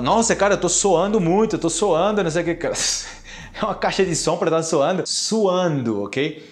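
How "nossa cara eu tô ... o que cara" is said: mock learner. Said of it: "Então fala".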